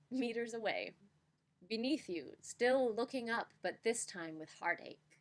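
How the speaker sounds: slam poetry reading. Shown as a demonstration. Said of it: "here I shall attempt my best slam poem reading".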